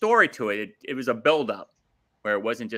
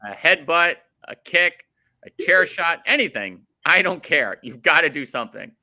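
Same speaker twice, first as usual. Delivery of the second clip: impassioned pleading. Real, not acted. Fan begging the wrestlers for action, impassioned pleading.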